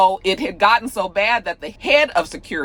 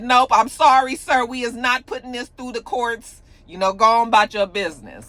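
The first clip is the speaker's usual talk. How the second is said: higher-pitched, dismissive mock judge; 6 semitones higher, 3 dB louder than usual. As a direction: turn them away like a sassy judge. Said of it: "the judge said".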